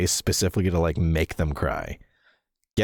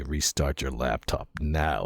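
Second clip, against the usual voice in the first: menacing demon; 4 semitones lower, 3 dB quieter, slower than usual. Retold or imitated. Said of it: "appear behind you with a gun and say".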